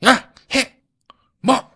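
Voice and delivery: short barked commands, loud; father yelling. Retold or imitated. Older-generation father barking orders at his kid, loud angry shouts. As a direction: bark orders like an old-school father. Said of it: "이렇게 약간 좀 윽박지르고".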